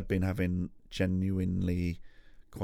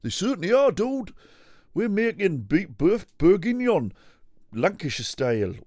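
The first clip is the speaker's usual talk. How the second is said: much higher and louder, cheery TV cook; bouncy northern cookery-show host; high Hairy Biker voice; 10 semitones higher, 8 dB louder than usual. Pretend. Playing one Hairy Biker to the other, high and loud.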